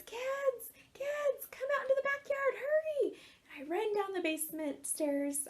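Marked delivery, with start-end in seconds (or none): 0.0-3.2 high excited call across the house; yelling to the kids. Retold or imitated. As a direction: shout for the kids to hurry out, fast. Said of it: "So I yelled to my kids".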